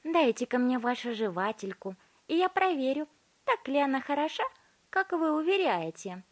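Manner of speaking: high, loud demanding voice; bossy girl. A narrator's reading. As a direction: order him to hand it over. Violetta demanding the gum.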